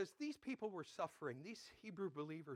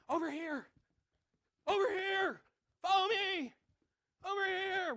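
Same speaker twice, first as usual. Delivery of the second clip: high, loud shouts across a yard; playground calling; 12 semitones higher, 10 dB louder than usual. Retold or imitated. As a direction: call the other kids over.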